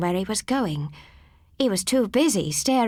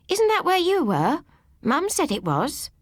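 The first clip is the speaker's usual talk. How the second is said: eagerly; 9 semitones higher than usual. A narrator's reading. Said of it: "I told him eagerly".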